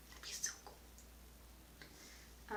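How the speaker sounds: very slow, breathy bad French accent; a badly faked French accent, stretched out slow; terrible French accent. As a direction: drag it out in a clumsy French accent. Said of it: "my terrible attempt of a French accent".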